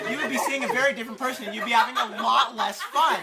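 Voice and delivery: amused warning. Real, not acted. Joking warning amid laughter.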